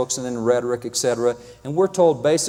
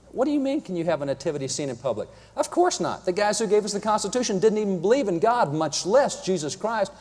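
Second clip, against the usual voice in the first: higher, scoffing mock of a future judge; mock incredulous official; 4 semitones higher than usual. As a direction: scoff as if the answer is obvious. Imagined future leaders ruling mockingly.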